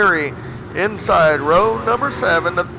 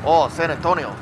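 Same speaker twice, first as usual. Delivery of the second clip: Hispanic accent; 3 semitones lower, faster than usual. Shown as a demonstration. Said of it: "Hispanic accent".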